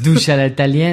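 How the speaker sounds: French phrase in an Italian accent. Shown as a demonstration. Asked to say it in Italian, Italian accent. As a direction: put an Italian lilt on the French. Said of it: "said it with an Italian accent".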